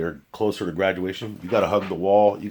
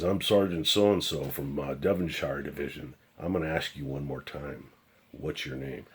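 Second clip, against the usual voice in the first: stern sergeant; 4 semitones lower, 4 dB quieter than usual. Retold or imitated. Sergeant reveals badge, stern.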